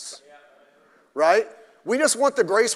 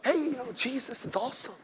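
softer, lightly sweetened voice; mock soft churchgoer; 5 semitones higher, 7 dB quieter than usual. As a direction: gush it softly as a parody. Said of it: "you dress like a girl".

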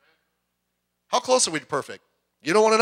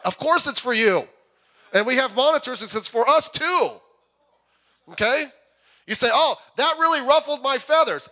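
raised, insistent pulpit voice; emphatic preaching; 7 semitones higher than usual. Real, not acted. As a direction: press the point home to the congregation, pitched up.

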